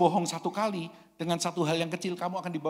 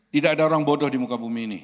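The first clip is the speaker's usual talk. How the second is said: preaching proclamation; 7 dB louder, faster than usual. Real, not acted.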